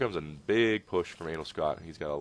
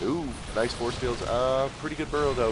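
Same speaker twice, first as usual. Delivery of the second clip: excited; 7 semitones higher, 5 dB louder than usual. Real, not acted. Excited reaction to clever play.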